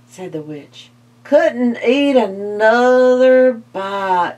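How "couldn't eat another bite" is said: slow, stuffed vampire voice; full vampire. Acted. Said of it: "said the vampire".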